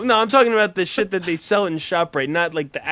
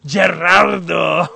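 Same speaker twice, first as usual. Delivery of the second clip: wailed name call; 4 dB louder, slower than usual. Pretend. Crying out a singer name.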